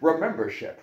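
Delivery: soft, husky Scottish impression; slushy-s Scottish star giving advice; Sean Connery. Host finishing the bit, hushed Sean Connery impression. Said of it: "Do Sean Connery".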